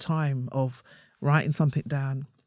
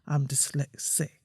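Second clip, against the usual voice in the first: slow, syllable-by-syllable admission, softer; hushed admission; 2 semitones lower, 6 dB quieter, slower than usual. Acted. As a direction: say it hushed, picking out each syllable. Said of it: "I whisper it".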